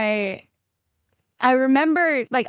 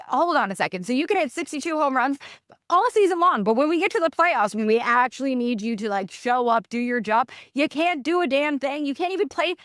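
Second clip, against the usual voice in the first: higher, heated rant at the TV; riled-up rant; 5 semitones higher than usual. Retold or imitated. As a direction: vent your fury at the slumping star. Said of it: "I'm getting all riled up right now".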